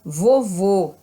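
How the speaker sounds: slow "Vovô" with closed final ô; "Vovô" slowly, last vowel closed and stressed. Shown as a demonstration. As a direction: draw out "Vovô", ending on a closed ô. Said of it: "dá o som fechado no O".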